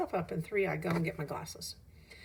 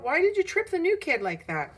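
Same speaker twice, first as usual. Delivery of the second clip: high and loud fake accusation; calling out accusation; 10 semitones higher, 6 dB louder than usual. Bully blames Joe for the trip, high and loud. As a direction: blame it on him loudly. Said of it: "Dylan calls out".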